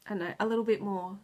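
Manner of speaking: rushed words, voice cracking with tears; fighting back tears while searching for a word; close to tears. Real, not acted. Vlogger searching for a word, holding back tears. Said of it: "now I'm gonna cry again".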